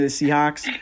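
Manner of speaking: put-on Boston accent on Seahawks, dropped r; light Boston accent, Seahawks. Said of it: "saying Seahawks in a Boston accent".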